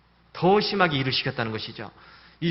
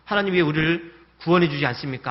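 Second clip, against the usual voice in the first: protesting prayer; 3 semitones higher, 3 dB louder than usual. Retold or imitated. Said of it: "따지듯이 지금 기도를 하고".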